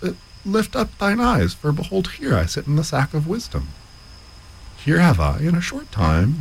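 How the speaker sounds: trickster selling the sack of wisdom; boastful man in the sack. Acted.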